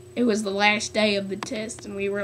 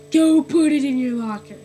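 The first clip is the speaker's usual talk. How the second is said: retold teacher order; 4 semitones higher, 7 dB louder than usual.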